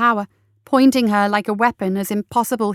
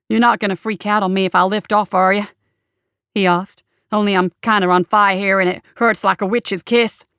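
loud, cheeky sidekick while burning; a wisecracking helper in pain, still joking; Samael's voice; 3 dB louder than usual. Acted. Sidekick sitting on his boss's chest while on fire, loud wisecrack.

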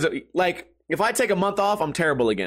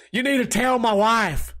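put-on country accent; 5 semitones higher than usual. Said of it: "doing the voice".

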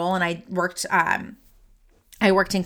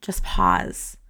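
a calming whispered "Just pause."; 14 semitones lower than usual. Shown as a demonstration. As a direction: whisper it, much lower and breathy. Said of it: "I want you just to pause".

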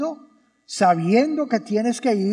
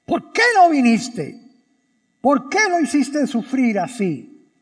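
indignant. Acted. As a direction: hammer each why at him. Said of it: "Ese es el tono que yo me imagino".

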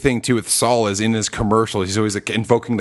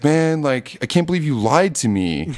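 whiny Badger; 5 semitones higher than usual. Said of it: "he's just like".

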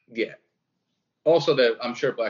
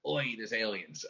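bad Jewish accent; 10 dB quieter, slower than usual. Shown as a demonstration. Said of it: "Let me hear it again".

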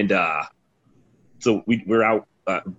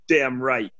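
put-on drunken cheer, voice leaping much higher on Vodka; drunk teammate toast; 5 semitones higher, slower than usual. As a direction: toast it like a happy drunk at closing time.

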